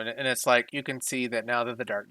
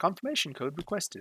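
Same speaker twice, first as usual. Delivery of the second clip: put-on higher-pitched British accent; 5 semitones higher, 4 dB quieter than usual. Describing a radio signal and voicing its message: familiar British accent. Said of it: "it's in a familiar British accent".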